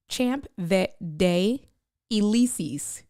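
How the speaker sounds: "Champ Vet Day Elysees" slowly, like English words; anglicized reading. Shown as a demonstration. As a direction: sound it out as written. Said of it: "type this the way I say it".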